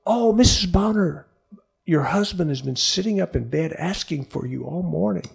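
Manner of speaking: lightly voiced nurse delivering wonderful news; excited nurse. Acting the delighted nurse.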